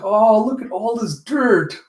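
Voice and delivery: put-on queen fussing over dirty girl; fussy queen. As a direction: dote over the grime like a royal. Queen Lemuria fusses over Alita.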